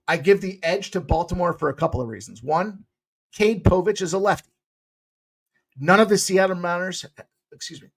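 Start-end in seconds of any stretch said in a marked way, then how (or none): 5.8-7.1 "Mariners" slipped into an odd accent, said like "Maunerz"; a stray, unplaced accent on "None of the Seattle Mariners"; accidental weird accent on "Mariners". Real, not acted. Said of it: "that was a weird accent".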